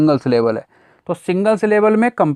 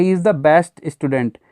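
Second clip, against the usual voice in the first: very slow, word by word English reading; slow dictation; much slower than usual. Shown as a demonstration. Teacher reads the example sentence to students, very slowly. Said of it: "जैसे sentence लिखा है".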